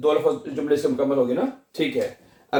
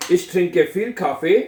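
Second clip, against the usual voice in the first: very slow, each word separate; slow dictation; 2 semitones higher, much slower than usual. Shown as a demonstration. Teacher dictating coffee sentence slowly to class. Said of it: "क्या बनेगा जी?".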